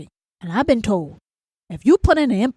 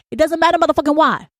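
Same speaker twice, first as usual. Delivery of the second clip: higher, snapping retort; exasperated inner rant; 6 semitones higher, faster than usual. Acted. Ranter's head answers the endless why, exasperated. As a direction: cut off the pestering with mock outrage. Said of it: "this was going on in my head".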